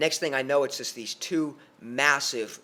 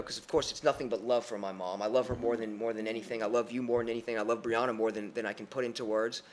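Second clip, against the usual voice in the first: softer, lower, heartfelt aside; sincere affection; 3 semitones lower, 3 dB quieter than usual. Real, not acted. Son declares love for his mom and Brianna, quietly sincere. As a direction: drop the storytelling energy and mean it.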